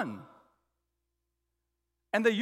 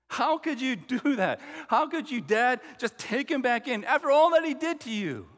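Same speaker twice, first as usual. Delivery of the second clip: impassioned, pressing rebuke to Dad; indignant protest; 4 dB louder than usual. Retold or imitated. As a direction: act out an older brother's outrage. Acted brother confronts his father.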